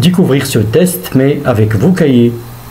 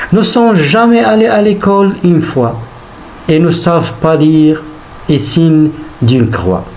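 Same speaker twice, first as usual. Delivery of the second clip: poem recitation; 2 semitones higher than usual. Acted. Teacher reads a Hugo poem to pupils, measured recitation. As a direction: recite line by line, stretching each phrase and letting it fall. Rereads poem lines to explain.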